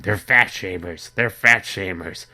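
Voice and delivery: half-hearted yelling of the accusation, drawn out; retold shouting. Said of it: "I kept shouting out".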